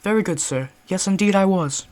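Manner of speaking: crisp British butler; clipped polite British reply; British accent. Acted. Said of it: "British accent for this one".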